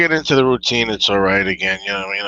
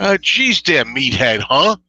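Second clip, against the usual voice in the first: Archie Bunker voice; slower than usual. Pretend. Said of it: "him trying to be Archie Bunker".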